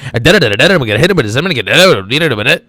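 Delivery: rhythmic rattling list-making comic delivery; a Carlin-style riff with scat syllables; George Carlin impression. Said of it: "That, that's how he talked".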